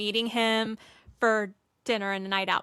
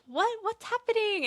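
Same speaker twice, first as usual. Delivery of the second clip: shocked servants; 12 semitones higher than usual. Retold or imitated. Servants reacting to the news.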